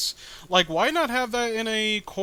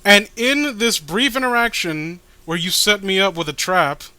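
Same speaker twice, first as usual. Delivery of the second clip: character voice; 2 semitones higher, 4 dB louder than usual. Acted. Reading a character's comic dialogue.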